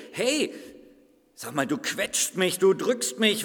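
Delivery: indignant clay lump, lightly voiced; talking lump of clay. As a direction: play a grumpy lump of clay being grabbed. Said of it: "Habt ihr schon mal einen Tonklumpen reden gehört?".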